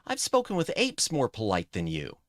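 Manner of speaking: lightly hammed-up sword-fight taunt; acted insult. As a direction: throw it as a theatrical jab. Reading game insult in character.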